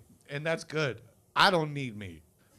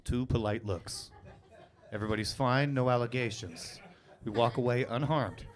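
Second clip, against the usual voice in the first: polite demo; 3 semitones lower, 3 dB quieter than usual. Shown as a demonstration. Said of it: "I will demonstrate that now".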